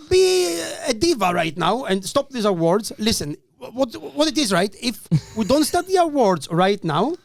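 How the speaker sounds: acted plea to halt proceedings; mock announcement. MC interrupting the awards to start the comedy, mock announcement.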